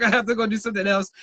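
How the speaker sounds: fast and laughing through it; hurried escape line, laughing; rushed, laughing. Retold or imitated. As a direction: blurt it out quickly with a laugh. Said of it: "I was like".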